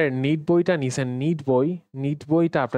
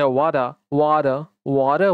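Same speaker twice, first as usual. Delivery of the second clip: "ওয়াটা" as American wada, t softened to d; American flapped t in water; American accent; 2 semitones lower than usual. Shown as a demonstration. Teacher comparing accents, American "ওয়াটা". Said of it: "American অ্যাকসেন্টে".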